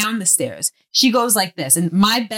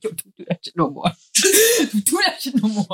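tough guy threat. Retold or imitated. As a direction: play the tough guy, half laughing.

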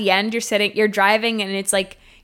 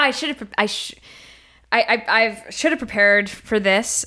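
stage fright. Acted. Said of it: "I'm nervous".

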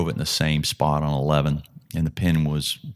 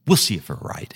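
skeptical relenting; 3 semitones higher than usual. Retold or imitated. Player giving in to his caddy's club choice, skeptical relenting. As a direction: concede with a doubtful edge, as retold. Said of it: "But he said it, he was like".

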